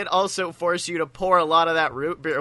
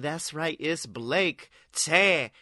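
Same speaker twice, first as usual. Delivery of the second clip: announcer hype. Pretend. Announcer intro continues.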